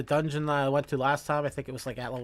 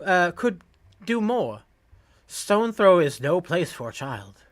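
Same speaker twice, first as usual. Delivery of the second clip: earnest game dialogue, lightly acted; a hint of a determined refugee; lightly voiced quest giver; 2 semitones higher, 5 dB louder than usual. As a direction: read the refugee's speech in character. Reads quest giver's speech aloud.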